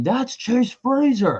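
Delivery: mock, high-pitched shouted line. Retelling what the guy behind was shouting: imitating someone shouting. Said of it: "the guy behind me was shouting".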